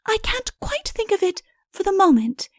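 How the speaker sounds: high, light princess voice. Acted. Princess musing aloud to Udo. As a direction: lift the voice up for the young princess.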